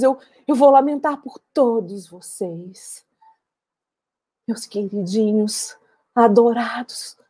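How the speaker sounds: slow, drawn-out mourning, easing down from a wail; tearful lament. Acted. Mother to all the young dead, slow tearful lament. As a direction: lament each word slowly and tenderly. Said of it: "ela começou a chorar pelos filhos dos outros".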